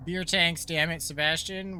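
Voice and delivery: put-on light Irish accent, grumbling. Hero grumbling at Sebastian in a light Irish accent. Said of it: "He's definitely Irish".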